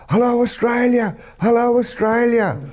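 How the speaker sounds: high, loud mock call of greeting; playful impression of a local shouting hello; imitating Iraqi man. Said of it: "all of a sudden he goes".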